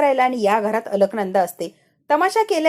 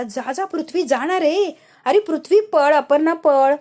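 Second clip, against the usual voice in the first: building from urging to a loud shout; louder with each name, hurry them off; mock-anxious yell to run after him; 4 semitones higher, 4 dB louder, slower than usual.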